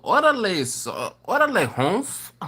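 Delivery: cholo-style orale Holmes; chicano accent. Pretend. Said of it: "you gotta say it like a cholo".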